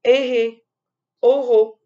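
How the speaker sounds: put-on cheeky child shouting back; child answering back. The child answers dad cheekily, loud playful reply. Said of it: "Et j'ai dit".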